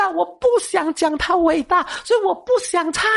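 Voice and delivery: retold angry objection; indignant protest. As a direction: argue back at God, half-acted frustration. Protesting God's greatness, retold.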